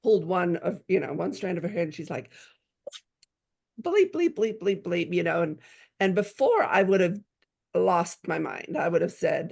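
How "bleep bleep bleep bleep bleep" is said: high-pitched mock bleeping; stand-in bleeps for a retold tirade; imitated angry squawking. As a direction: rattle off bleeps as a mock outburst. Mimics daughter going off at her.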